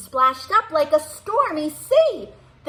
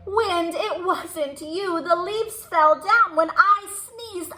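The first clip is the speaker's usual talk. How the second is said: bear character; 5 semitones higher than usual. Acted. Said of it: "Bear said".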